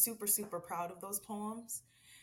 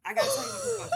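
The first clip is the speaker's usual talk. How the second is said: much higher, laughing while speaking; laughing through tears; 8 dB louder, much faster than usual. Real, not acted. Author trying to introduce her book, laughing tearfully.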